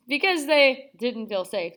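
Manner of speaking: slow, sceptical air quotes; air-quote scepticism. Shown as a demonstration. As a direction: put it in audible quote marks. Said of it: "that was in air quotes".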